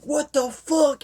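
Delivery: high, slow mock disbelief; shocked disbelief. Man reading a creepy list, shocked and slow. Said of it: "And he's like".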